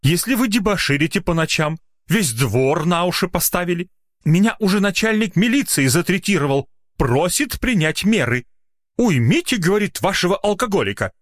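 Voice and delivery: high-pitched exasperated scolding; indignant. A narrator's reading. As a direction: list the offences in a high, outraged voice. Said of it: "возмущённо произнёс доктор".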